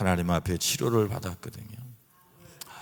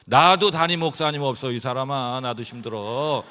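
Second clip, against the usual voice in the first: louder, fed-up comeback; exasperated retort; 3 semitones higher, 6 dB louder than usual. Retold or imitated. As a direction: snap back tiredly. Retort to wife. (지쳐서 큰 소리로 맞받아치기)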